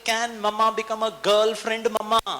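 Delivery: put-on very slow, high and sweet girlfriend voice; sweet loving talk. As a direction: coo it slowly to win him over. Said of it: "वो इतना प्यार से बोल रही है". (प्यार से धीरे-धीरे मीठी आवाज़ में)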